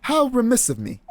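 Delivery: hammed-up British gentleman apology; amateur British accent, courtly; terrible British accent. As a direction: apologize grandly in a shaky-quality British accent. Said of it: "I have a terrible British accent".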